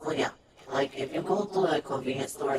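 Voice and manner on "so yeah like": normal talking voice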